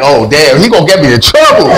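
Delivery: a nervous buddy fearing trouble; worried friend. Retold or imitated. Friend fears getting in trouble, voiced fast and high. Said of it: "Lou is like".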